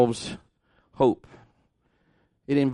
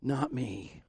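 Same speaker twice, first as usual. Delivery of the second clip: soft reassurance; 3 semitones lower, 9 dB quieter, much slower than usual. Retold or imitated. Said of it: "Jesus is saying".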